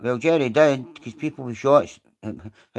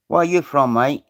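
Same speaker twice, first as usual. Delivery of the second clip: mock London accent. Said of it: "I am from London".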